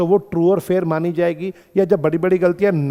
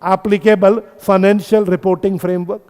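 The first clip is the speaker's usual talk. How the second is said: very slow, each word spaced out for notes; slow dictation; much slower than usual. Shown as a demonstration. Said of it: "क्या बोला मैंने?". (बहुत धीरे, लिखवाते हुए)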